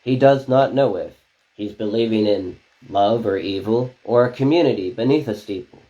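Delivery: rhythmic spoken word reading; poem recitation. Acted. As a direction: perform each line like slam poetry. Reads clownfish poem.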